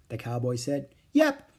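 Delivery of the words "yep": smiling. A narrator's reading. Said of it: "Annie smiled".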